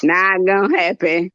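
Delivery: lightly deepened no-nonsense husband. Retold or imitated. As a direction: shut it down like a husband who means business. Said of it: "only when he means business, his voice gets deeper".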